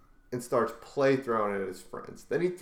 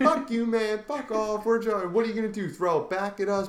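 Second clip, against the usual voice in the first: put-on high, taunting kid voice, faster near the end; mocking teen voice; 9 semitones higher than usual. Teen on the subway talking back to the man, bratty and high. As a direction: sneer back like a bratty teenager. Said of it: "kids' retort retold".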